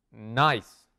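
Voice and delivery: "Nice" in one single beat; one syllable. Shown as a demonstration. Teacher showing students a single beat, "Nice" in one syllable. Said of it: "Un solo golpe".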